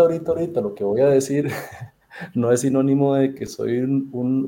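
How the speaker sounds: quick words broken by a real laugh. Real, not acted. Podcast host laughing at his own disclaimer to the guests, quick and laughing. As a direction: chuckle through a fast self-mocking aside.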